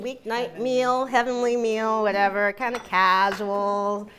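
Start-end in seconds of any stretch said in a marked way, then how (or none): 2.5-4.1 put-on voice. Real, not acted. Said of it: "I don't know why I'm talking like this".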